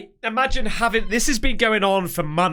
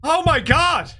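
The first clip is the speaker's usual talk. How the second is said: panicked cries; 8 semitones higher than usual. Real, not acted. Begging the video's heartbeat to stop, high panicked cries. Terrified by heartbeat sound effect.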